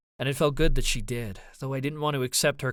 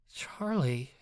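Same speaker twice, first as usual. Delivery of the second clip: breathed. Acted. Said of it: "Ava breathed".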